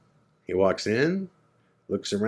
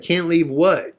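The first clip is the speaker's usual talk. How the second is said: higher, laughing "what?"; puzzled laugh; 6 semitones higher, 3 dB louder than usual. Retold or imitated. A rock drummer baffled by the rule, laughing. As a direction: ask it half-laughing in disbelief.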